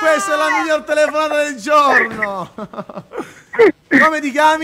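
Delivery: loud, high, laughing delight; excited laughing shout. Real, not acted. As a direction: cheer the caller with laughter. Delighted by a funny caller.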